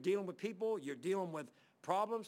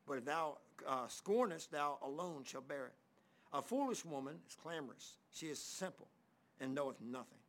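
scripture reading. Acted. Reads scripture.

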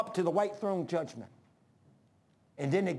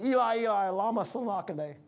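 lifts the Aramaic cry up and out, a little louder; calls the words out as a cry to heaven; 3 semitones higher than usual. Acted. Preacher voicing Jesus on the cross, a raised cry. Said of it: "Jesus cried with a loud voice".

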